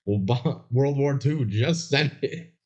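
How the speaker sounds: slow, mock old-fashioned newsreel announcer; a lightly put-on antique radio voice; old-timey voice. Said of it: "these old-timey voices".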